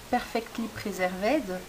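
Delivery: "Perfectly Preserved" slowly, in a careful English accent. Shown as a demonstration. Crafter naming a stamp pack in English accent. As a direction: read the product name the English way, unhurried. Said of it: "c'est, euh, mon accent anglais".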